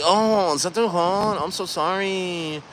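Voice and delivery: high, soft mock Asian accent; fake Asian accent. Masseuse fussing over client, high fake Asian accent. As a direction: imitate her fake Asian accent, trailing softly. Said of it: "the fake Asian accent thing".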